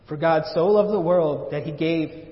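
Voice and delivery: slow, deliberate verse reading; acted slow reading aloud from scripture; reading out loud. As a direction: read the verse aloud, drawing the words out. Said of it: "starts reading it out loud".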